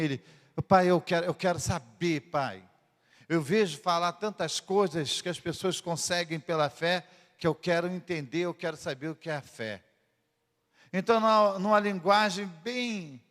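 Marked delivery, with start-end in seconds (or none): 0.7-9.8 put-on soft, pleading little boy begging his dad; pleading child. Son quietly pleading with his father to understand faith. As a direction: beg quietly, like a small son.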